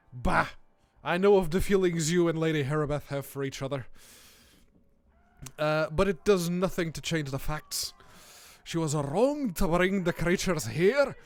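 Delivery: hammed-up Scottish-tinged cleric; indignant cleric, put-on Scottish lilt; thick put-on accent. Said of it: "Laying it on a little bit thick".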